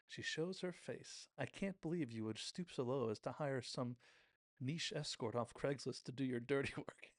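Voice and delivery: hammed-up scornful confrontation; theatrical scolding, breaking into a laugh at the end; mock disdain. Shop owner confronts a rival.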